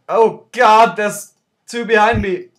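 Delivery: high panicked yelping, near screaming; trembling whiny yelps. Real, not acted. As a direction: yelp it out in real panic. Panics as orcs attack him.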